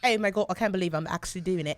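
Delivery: laughing while mirroring; giggling at herself. Real, not acted. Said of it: "look at me over here".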